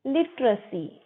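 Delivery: 'लिटरेसी' with a short schwa before the final -सी; teacher's model 'लिटरेसी', middle vowel reduced to 'ruh'; correct pronunciation. Shown as a demonstration. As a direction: say 'लिटरेसी' as LIT-ruh-see. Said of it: "लिटरेसी नहीं, लिटरेसी".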